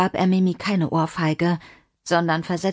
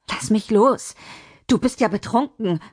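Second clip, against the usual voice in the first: higher, indignant woman's voice; indignant protest; 4 semitones higher than usual. Acted. Mimi shaken by the drunken man, indignant. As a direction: protest sharply at being grabbed.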